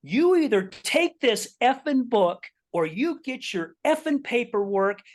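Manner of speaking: imitated stern ultimatum, pitched high; dead-serious ultimatum. Customer orders salesman to take book or leave, dead serious. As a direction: lay down the law, high and insistent. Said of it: "she was dead serious".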